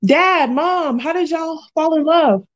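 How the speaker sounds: high, lilting imitation of a curious kid; pretend child's question. Playing a child asking the parents.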